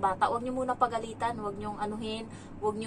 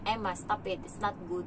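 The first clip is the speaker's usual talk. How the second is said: lower, controlled warning; deepened stern voice; 3 semitones lower, 4 dB quieter than usual. Shown as a demonstration. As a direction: demonstrate a firm nanny's reprimand without raising the voice. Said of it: "pag yung boses ko, lumalim na".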